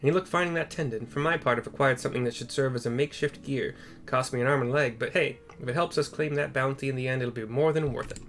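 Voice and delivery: a hint of an eager adventurer; lightly voiced companion. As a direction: report in to your friend, a little brisk. Voicing companion NPC.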